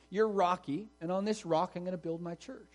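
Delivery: "Rocky" and "rock" lightly pressed; playful pun, mildly stressed; wordplay stress. Retold or imitated. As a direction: point up "Rocky" against "rock". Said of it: "Jesus is making a pun".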